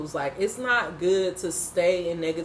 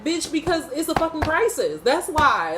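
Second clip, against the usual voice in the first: sharp, raised comeback; indignant retort; 8 semitones higher, 3 dB louder than usual. Retold or imitated. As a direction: snap back at them. Retorting to the news people.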